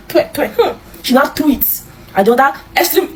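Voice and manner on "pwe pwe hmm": mock spitting. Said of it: "She was like".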